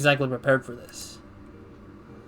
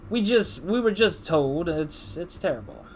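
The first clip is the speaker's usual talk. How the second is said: put-on a higher, slow try at a Boston accent; attempted Boston accent; 3 semitones higher than usual. Gamer voicing the executive with a faltering Boston accent. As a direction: reach for a Boston accent and lose it. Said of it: "I was just trying to go Boston accent".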